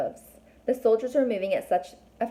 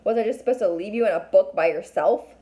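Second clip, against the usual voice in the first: exclaimed; 6 dB louder than usual. A narrator's reading. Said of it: "he exclaimed".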